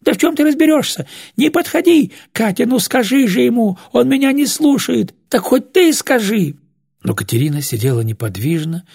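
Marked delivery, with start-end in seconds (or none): 0.0-6.5 put-on high, agitated old woman's protest; frantic pleading. A narrator's reading. Old woman pleads with Катя to stop him, frantic. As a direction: beg and scold in mounting panic.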